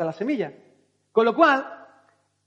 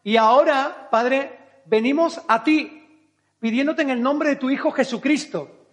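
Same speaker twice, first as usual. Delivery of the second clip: prayer. Acted. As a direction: pray it with open devotion. Leads a prayer. (oración sincera y pausada)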